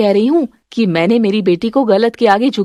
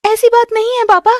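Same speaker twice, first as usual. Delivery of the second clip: high, crying protest to father; pleading through tears; tearful protest; 9 semitones higher than usual. Acted. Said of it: "आस्था, रोने वाली क्या बात है?". (पापा से रोते हुए विरोध)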